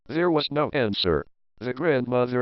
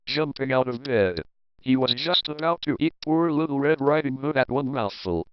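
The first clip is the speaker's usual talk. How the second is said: usual speaking voice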